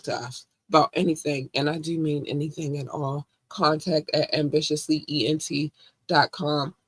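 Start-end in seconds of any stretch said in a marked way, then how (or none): 3.5-6.7 slow and clear. Shown as a demonstration. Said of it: "repeated slowly for listeners".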